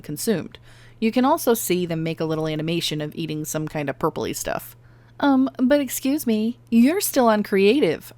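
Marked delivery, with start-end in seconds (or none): 5.2-8.1 mock scolding. Calling herself out as viewer.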